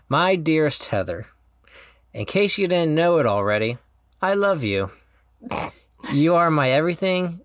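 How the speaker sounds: sincere, measured vow reading; heartfelt vow reading. Real, not acted. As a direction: read the vows with tender sincerity. Reads his wedding vows aloud.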